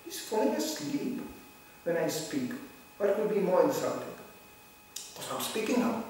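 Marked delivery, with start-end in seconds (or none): 0.0-1.2 high, slow mocking whine. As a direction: whine it like an offended speaker. Mocking sleepy listener.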